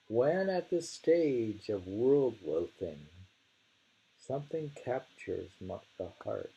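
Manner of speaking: poem reading. Acted. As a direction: savour each line of the verse.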